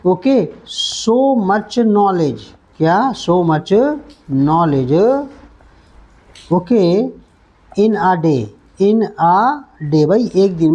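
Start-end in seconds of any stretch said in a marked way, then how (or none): 1.0-5.3 slow it right down for pupils; very slow drill. Shown as a demonstration. Teacher drilling the phrase very slowly. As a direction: drag every word out. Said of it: "slow repetition".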